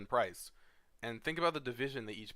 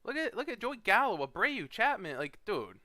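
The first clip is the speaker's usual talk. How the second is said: much higher, louder rant; exasperated rant; 10 semitones higher, 5 dB louder than usual. Real, not acted. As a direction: pile on the examples, fired up. Ranting at a bad pick.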